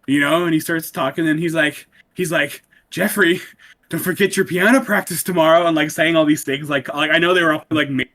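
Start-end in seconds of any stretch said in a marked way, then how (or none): 2.9-5.7 creepy stalker voice. Retold or imitated. Quoting creepy video voice.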